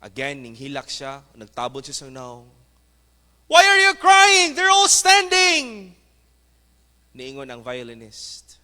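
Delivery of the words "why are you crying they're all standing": very high, loud crowd calling out. Acted. Audience calling to the crying violinist, high and loud. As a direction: shout up to the weeping violinist.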